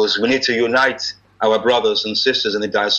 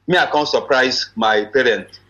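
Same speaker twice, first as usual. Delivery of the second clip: Nigerian Pidgin lilt; easy Naija Pidgin speech; Nigerian broken English. Shown as a demonstration. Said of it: "You getting my broken English".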